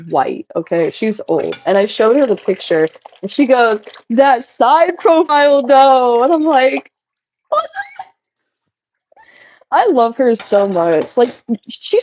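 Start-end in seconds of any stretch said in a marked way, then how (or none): 4.1-6.2 higher, slow, savouring each word; lightly voiced sly grandma; mock old lady voice. Grandma's line retold in mock voice. 7.5-8.0 shocked squeak. Retold or imitated. Reacting to grandma's comment.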